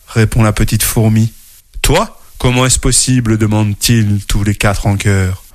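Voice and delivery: lively storybook narration with character voices; reading to children. A narrator's reading. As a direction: tell it like a bedtime story to kids. (lecture d'histoire pour enfants)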